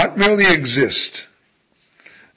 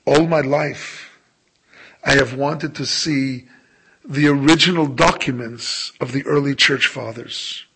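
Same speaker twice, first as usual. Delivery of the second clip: put-on Polish accent. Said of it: "in a remarkably Polish accent".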